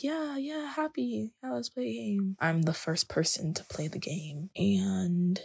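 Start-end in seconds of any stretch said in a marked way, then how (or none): 0.0-2.4 put-on high, soft childlike yeah; a small child happily agreeing; eager little kids. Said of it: "and we were like".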